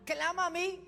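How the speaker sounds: high, loud proclaiming, slowing at the end; preacher voicing God, ringing and slow; voice of God calling. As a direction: cry out God's promise and stretch the last words. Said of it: "Pero ahí dice".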